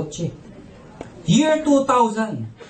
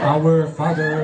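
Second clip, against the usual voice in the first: low, slow start of a prayer; solemn prayer; 7 semitones lower, much slower than usual. Acted. Captain leading the passengers in prayer, low and slow.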